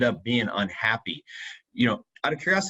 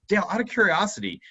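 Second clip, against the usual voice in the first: "Dale, out of curiosity" pitched higher, like a question; questioning inflection; 9 semitones higher than usual. Shown as a demonstration. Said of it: "you can hear my voice inflection go up slightly".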